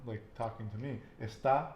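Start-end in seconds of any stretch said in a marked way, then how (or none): 1.2-1.7 "Está" stressed es-TÁ; "Está" with a rise on the last syllable; stress on final syllable. Shown as a demonstration. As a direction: punch the accented A of "Está". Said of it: "E S T A with the accent is you".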